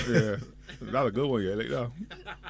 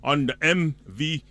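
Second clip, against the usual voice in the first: excited announcer hyping a boat party; event promo read; much slower than usual. Acted. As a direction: pump it up like a radio promo. Reads an event ad.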